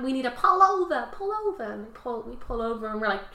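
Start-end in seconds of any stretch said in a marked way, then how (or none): 0.0-1.6 mock screaming. Crackheads from Dorchester yell at the family to pull over, hammed-up Boston yelling. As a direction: bark the order like an angry local. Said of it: "start screaming about having".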